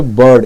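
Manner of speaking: बर्ड with no R before the D; silent R. Shown as a demonstration. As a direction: leave the R out of बर्ड. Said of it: "आर जो है silent".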